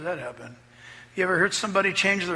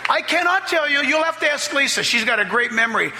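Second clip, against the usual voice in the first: laughing; 9 semitones higher than usual. Real, not acted. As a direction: laugh in disbelief at the memory. Laughing recalling the toasts.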